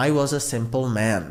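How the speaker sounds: slow, clear teacher model; slow dictation pace; slow model sentence. Shown as a demonstration. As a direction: spell it out slowly for learners. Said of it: "সাধারণ মানে simple".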